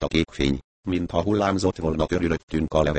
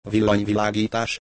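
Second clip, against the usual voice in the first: startled echo, rising into a question; taken aback; 3 semitones higher than usual. Acted. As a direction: repeat the word back in mild disbelief. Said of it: "hökkent meg".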